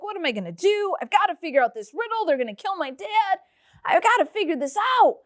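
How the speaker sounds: high, fast fretting; a wife fearing for her dad; panicky wife. Acted. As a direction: rush it out in a worried flutter.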